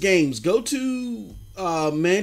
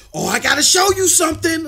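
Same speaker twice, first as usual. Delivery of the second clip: higher, louder eager voice of the brother; retelling an excited brother, pitched up; 11 semitones higher, 5 dB louder than usual. Retold or imitated. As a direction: voice him bursting to show off. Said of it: "He was so excited".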